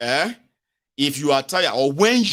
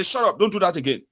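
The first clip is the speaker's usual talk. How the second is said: raised-pitch acted reprimand; mock scolding; 5 semitones higher than usual. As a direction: tick someone off like a bullying authority. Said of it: "beat you to shape and say".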